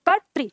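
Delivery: "कर्तृ" said whole as kər-tri; joined pronunciation. Shown as a demonstration. Teacher joining the sounds into the word कर्तृ. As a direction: blend it into one word "कर्तृ". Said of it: "क्या हुआ उच्चारण?".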